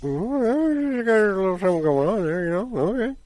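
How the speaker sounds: high, quick teasing put-on voice; nudge-nudge gossipy falsetto; mock gossip voice. Teasing gossip about Pepper romance.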